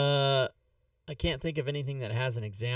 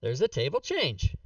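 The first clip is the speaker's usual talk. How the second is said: put-on light New York Jewish accent, barely shifted; hint of a New York Jewish accent on it. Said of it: "in a New York Jewish accent".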